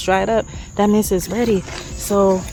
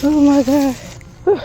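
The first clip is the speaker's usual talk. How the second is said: startled; 7 semitones higher than usual. Real, not acted. Gardener startled by something in the tree, yelps. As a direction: jump at what you see. Startled near animal holes.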